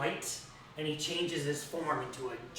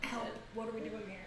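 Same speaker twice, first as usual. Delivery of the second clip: panicked plea; 6 semitones higher, 8 dB quieter than usual. Acted. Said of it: "Rainier kinda stutters".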